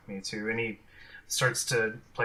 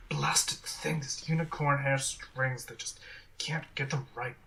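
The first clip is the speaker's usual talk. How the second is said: whispered irritated muttering; grumbling bard; 4 semitones higher, slower than usual. Acted. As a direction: gripe under your breath.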